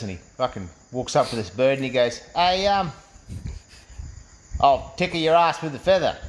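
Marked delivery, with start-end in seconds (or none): 2.3-6.2 hesitant pick-up attempt with a long pause; mildly nervous, acted chat-up line. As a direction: stall on the um, then get the line out. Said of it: "Cam's a little bit nervous".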